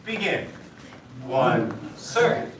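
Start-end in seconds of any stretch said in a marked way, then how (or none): 1.2-2.5 shouted drill count. Real, not acted.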